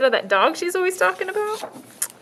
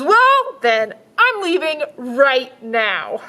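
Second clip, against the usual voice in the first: put-on little girl voice; 3 semitones higher, 4 dB louder, slower than usual. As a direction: insist like a stubborn child. Girl leaving.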